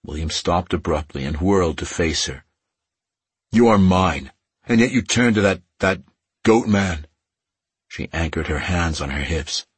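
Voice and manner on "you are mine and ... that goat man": angry. Acted. Jealous mate confronts her.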